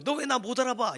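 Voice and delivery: high-pitched indignant reproach; mock scolding. Shepherd blaming sheep for not knowing him, mock scolding. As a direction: act out an unfair telling-off. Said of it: "이렇게 야단칠 수 있어요".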